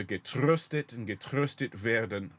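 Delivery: "getröstet" and "werden" with a rolled R instead of the German throat R. Shown as a demonstration. Choir director demonstrates the rolled R for singers. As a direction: roll the R in "getröstet". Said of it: "we're going to roll R's rather than use the Germanic sound".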